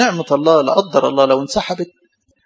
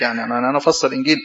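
smug know-it-all; 4 semitones lower, 3 dB quieter, much faster than usual. Retold or imitated. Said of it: "يفسر الإنجيل ويقول لك".

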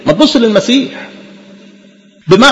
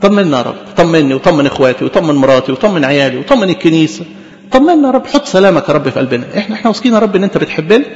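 model prayer. Shown as a demonstration. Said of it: "اقف بيها قدام ربنا".

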